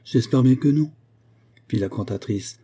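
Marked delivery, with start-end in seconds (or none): 0.0-0.9 renewed energy. A narrator's reading. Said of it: "avec un retour d'énergie".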